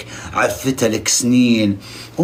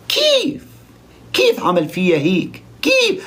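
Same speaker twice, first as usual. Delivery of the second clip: mock Lebanese "كيف؟" squeaked far higher; 6 semitones higher, slower than usual. Vlogger mocks a Lebanese contestant, squeaky Lebanese. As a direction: parody a Lebanese girl asking why, pitch shooting up. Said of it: "فاحنا نتكلم لبناني مثلها".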